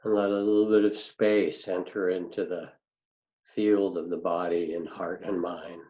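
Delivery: unhurried grounding meditation with long pauses; calm meditation teacher, phrase by phrase; guided meditation. Real, not acted. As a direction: guide listeners gently into the body, leaving space between phrases.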